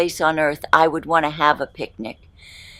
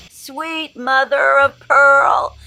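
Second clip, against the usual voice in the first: shrieking laugh, drawn-out exclamation; laughing exclaim; 9 semitones higher, 6 dB louder, much slower than usual. Real, not acted. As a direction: laugh it out, startled and delighted. Jump scare laugh.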